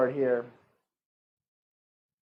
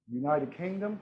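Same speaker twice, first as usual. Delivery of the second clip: put-on softer, half-hearted British accent; badly faked British accent; 6 dB quieter than usual. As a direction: have a weak go at sounding British. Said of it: "That's not a good British accent".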